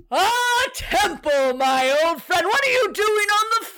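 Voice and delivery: put-on booming old commander, hearty; commander greeting. Commander greeting a friend on the floor, hearty. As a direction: welcome him like an old war buddy.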